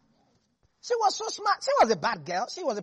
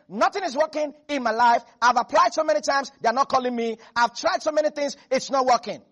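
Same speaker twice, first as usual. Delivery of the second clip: mock complaining Christian; 5 dB louder than usual. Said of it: "That's like you saying".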